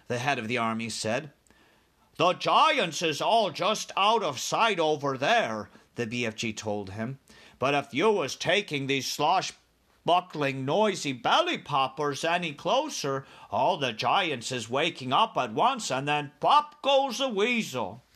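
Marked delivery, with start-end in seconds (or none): 2.2-5.7 slow, lightly voiced giant character; BFG giant. BFG to the head of the army, slow explanation. 7.6-18.0 lightly voiced giant giving a warning; BFG giant. BFG warning army head about noisy vehicles, cautioning.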